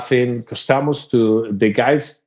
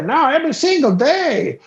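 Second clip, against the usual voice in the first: cocky redneck; 13 semitones higher than usual. Retold or imitated. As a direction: brag like a backwoods partier. Redneck boasts about partying.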